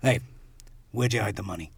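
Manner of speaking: understated New York mobster question; New York mob voice. Acted. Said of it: "Oh, that was good".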